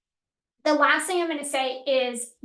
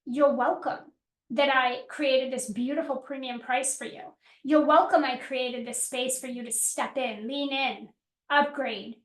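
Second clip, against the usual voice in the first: confident. Retold or imitated. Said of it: "do you feel like you show up with".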